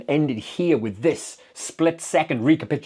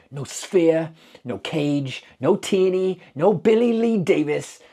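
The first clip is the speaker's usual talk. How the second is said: each "no" hit harder and higher, building to a near shout; rising anguished insistence; 6 semitones higher, 3 dB louder, slower than usual. Acted. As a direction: hammer every loss home, louder each time. Sheriff lists what the blast destroyed.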